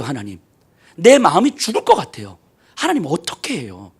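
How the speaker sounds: despairing prayer. Retold or imitated. Moses praying in despair.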